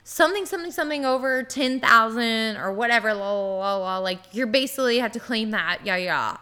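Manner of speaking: gloss over the text with filler words; skimming aloud. Retold or imitated. Skimming a slip read under pressure.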